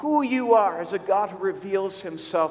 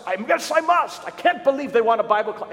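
high, louder mock English accent; Peter Harris's English accent; 3 semitones higher, 4 dB louder than usual. Colleague agrees to lead Bible class, eager English accent. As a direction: imitate an eager Englishman, pitched up at first. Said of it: "saying this in his English accent".

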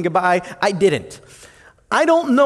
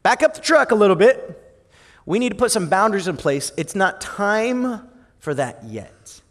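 mock warning. Women voiced urging her to wait.

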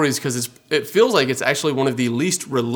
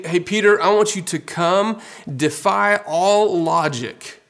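higher, urgent call that slows at the end; Jesus calling Peter; 5 semitones higher, slower than usual. Retold or imitated. Jesus urging Peter out of the boat, higher and slowing. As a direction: call him out of the boat, then stretch it slow.

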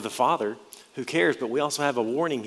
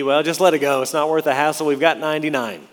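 louder, breezy write-it-off voice; talking yourself out of the trouble; dismissive shrug; 3 semitones higher, 6 dB louder, faster than usual. Acted. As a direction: brush it off as not worth bothering. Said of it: "Our thinking would be".

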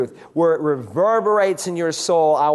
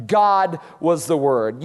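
slow, with "God" set out first and stressed; emphatic GOD; 2 semitones lower, slower than usual. Shown as a demonstration. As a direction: lean hard on "God", then finish steadily. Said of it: "cannot get any more emphatic".

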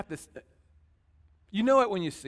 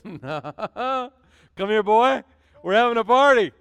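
loud, higher, welcoming father's call; joyful father; 5 semitones higher, 10 dB louder than usual. Acted. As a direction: call the son home with joy, louder. Father welcomes prodigal son home.

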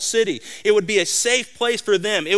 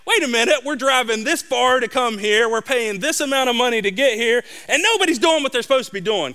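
higher, rising irritation, faster at the end; angry dad; 5 semitones higher than usual. Retold or imitated. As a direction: fume about the money and the drive. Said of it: "I'm getting angry about this because I'm thinking".

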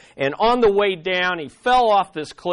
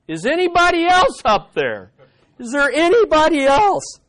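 high-pitched, raised call for help; comic high holler of a stranded man; 10 semitones higher, 4 dB louder than usual. Acted. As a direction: call up hopefully for somebody else. Man calls for someone else.

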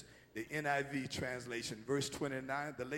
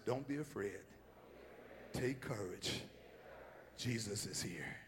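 soft reassurance; 5 semitones lower, 10 dB quieter than usual. Pretend. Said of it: "Look at somebody and say".

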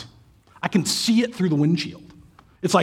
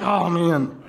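son's sigh. Retold or imitated. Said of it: "You know, like".

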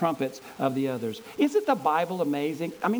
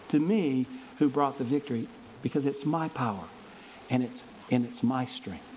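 voice of God; 2 semitones lower than usual. Acted. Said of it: "God's response is".

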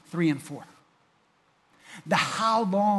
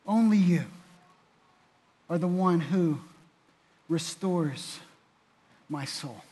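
fervent prayer fading to hush; 4 dB louder than usual. Acted. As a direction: pray it strong, then let it fade.

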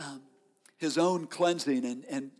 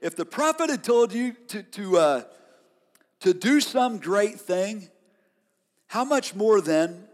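respectful servants; 3 semitones higher, 3 dB louder than usual. Retold or imitated. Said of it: "so respectfully".

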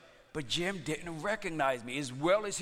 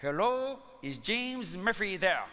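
prank caller voice; 3 semitones higher, slower than usual. Retold or imitated. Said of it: "And I say".

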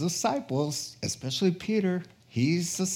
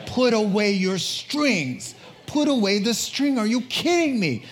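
exasperated scolding; 6 semitones higher than usual. Acted. Jesus voiced scolding.

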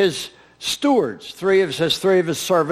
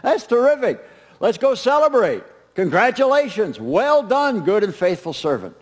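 excited master; 3 semitones higher than usual. Acted. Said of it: "He said".

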